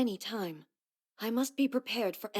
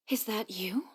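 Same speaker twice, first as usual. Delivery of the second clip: whisper. Acted. Startled on seeing Furuyama.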